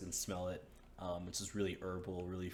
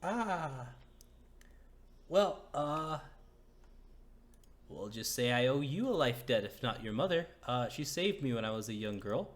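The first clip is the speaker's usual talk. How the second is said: higher, louder emotional woman; moved woman; 4 semitones higher, 5 dB louder than usual. Acted. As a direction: speak as the grateful woman. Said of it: "She's like".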